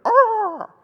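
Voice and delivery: shrill, high cawing crow cry; sudden high crow screech. Retold or imitated. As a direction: squawk like a menacing movie crow. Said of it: "He'd put a black crow to be there".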